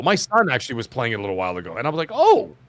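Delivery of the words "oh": high, loud "oh"; retelling a surprised reaction, pitched up; retold surprise. Recalling watching his son play, mock surprised.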